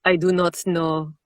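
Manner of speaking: slow Russian accent tinged with French; Russian accent attempt. Shown as a demonstration. Narrator attempting on request, slow French-tinged Russian accent. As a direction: try Russian but let French creep in. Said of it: "That's still very French".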